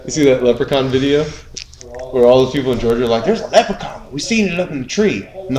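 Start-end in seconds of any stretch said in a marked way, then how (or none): 3.2-5.3 put-on a light Southern accent, slightly higher; southern accent impression. Georgia neighbors reporting a leprechaun, light Southern accent. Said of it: "I'm doing a really racist impression".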